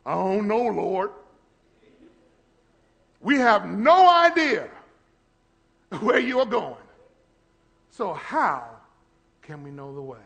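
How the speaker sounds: lightly voiced confused disciple; puzzled, pleading question; doubting Thomas. Thomas asking Jesus where he goes, mild confusion. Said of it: "doubting Thomas".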